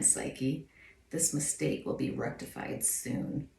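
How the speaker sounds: soft, cold villain menace; a hint of a scheming queen; slow theatrical villain menace. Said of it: "best villain voice, Kelly".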